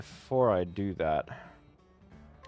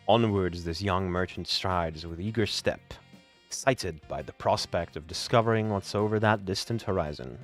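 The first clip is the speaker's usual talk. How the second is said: story narration. Acted. Reads the chapter-end narration.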